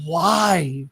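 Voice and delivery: drawn-out, effortful word from a patient; labored single word; struggling to speak. Retold or imitated. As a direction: mimic someone straining to get a word out. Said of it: "struggling to speak".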